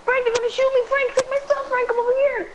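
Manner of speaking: high, pleading calls for help to Frank; urgent calling out. Real, not acted. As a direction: call out to your teammate before you die. Calling teammate while being shot.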